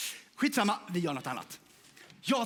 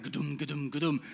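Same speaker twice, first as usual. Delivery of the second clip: countdown ticking sound. Shown as a demonstration. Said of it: "det är värsta nedräkningen så här".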